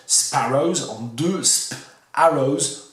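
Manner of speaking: "sparrows" broken into "sp-" and "arrows"; word split apart. Shown as a demonstration. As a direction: say "sparrows", then slowly split off "sp-" before "arrows". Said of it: "la décomposition du mot sparrow".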